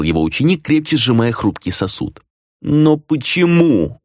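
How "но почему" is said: slow, high pleading moan. A narrator's reading. Dona begs Sam for a reason, slow moan. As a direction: draw it out in anguish. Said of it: "простонала Дона".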